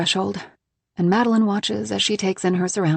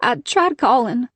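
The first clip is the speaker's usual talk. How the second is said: higher, drawn-out apology; mildly upset, slow and apologetic; 5 semitones higher, 4 dB louder, slower than usual. A narrator's reading. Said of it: "she says again apologetically".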